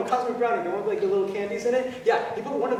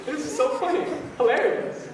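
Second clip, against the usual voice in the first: high, laughing delivery; cackling; 8 semitones higher than usual. Real, not acted. Storyteller amused by the accident, cackling. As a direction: say it through real giggles. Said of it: "I'm cackling".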